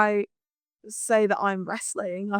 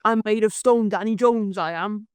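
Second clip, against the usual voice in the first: put-on Welsh accent. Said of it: "what else he says".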